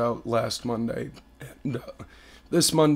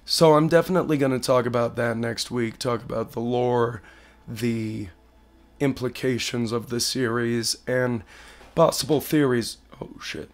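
hoarse sick voice. Real, not acted. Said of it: "I sound like shit right now".

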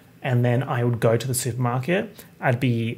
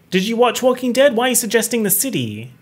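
mock exasperation; 8 semitones higher, 4 dB louder than usual. Mock scolding of imagined bad advice.

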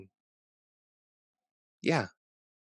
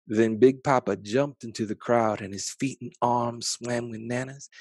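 ordinary delivery

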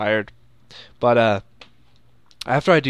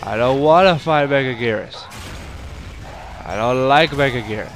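mock whining. Gamer not wanting to fight Mega Gears, mock whining. Protesting the next opponent.

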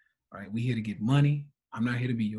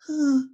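mock whimper; 13 semitones higher, 6 dB louder than usual. Mimics an emotional student starting to whimper.

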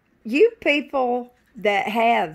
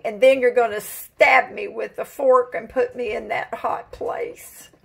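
chicken's voice; 5 dB louder than usual. Acted. Voicing the chicken she's about to cook, pleading. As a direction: give the chicken a worried, pleading voice. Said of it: "He says".

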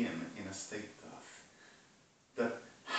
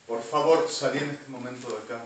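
angry order; 2 semitones higher, 8 dB louder, faster than usual. Real, not acted. Ordering someone out of room.

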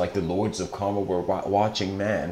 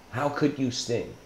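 softer, sinking repeat of the question; a softer, resigned repeat of the frog's question; quieter repeat; 3 semitones higher, 5 dB quieter than usual. Retold or imitated. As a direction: let it drop, almost to yourself. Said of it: "And he says".

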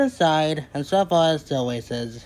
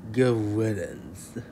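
slow, lower dismissive aside; muttered true meaning; 4 semitones lower, slower than usual. A narrator's reading. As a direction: drag it out as a private good riddance. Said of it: "when meaning".

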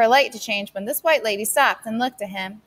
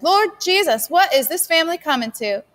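despairing cry; 7 semitones higher, 3 dB louder than usual. Acted. Mother despairing aloud.

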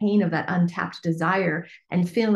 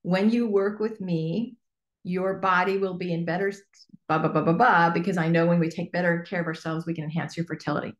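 slow model statement. Shown as a demonstration. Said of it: "the promise is".

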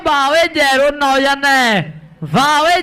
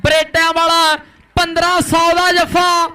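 drawn-out shout; slower than usual. Real, not acted. Crowd-hyping tackle announcement.

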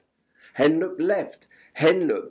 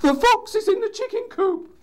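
very high, loud owl cry; owl's alarm; 5 dB louder than usual. A narrator's reading. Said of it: "cried Owl".

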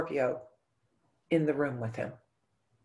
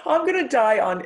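louder, higher booming reassurance with a laugh in it; dad's loud teasing; 8 semitones higher, 8 dB louder than usual. Retold or imitated. Daughter voicing her dying dad teasing her, loud and pitched up. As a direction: boom it out like a big dad brushing off her fear. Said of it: "and he goes".

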